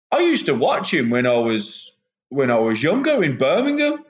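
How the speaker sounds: playful Brummie impersonation; Trent Seven. Retold or imitated. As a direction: put on a thick Brummie voice. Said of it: "in his thick Brummie accent".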